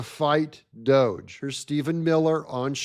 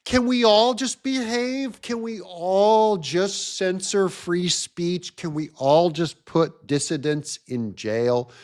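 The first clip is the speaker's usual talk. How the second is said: mock Sunday school teacher. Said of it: "Sunday school teacher".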